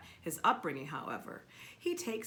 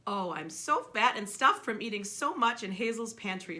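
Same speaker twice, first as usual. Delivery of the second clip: happy; 8 dB louder than usual. A narrator's reading. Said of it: "says happily".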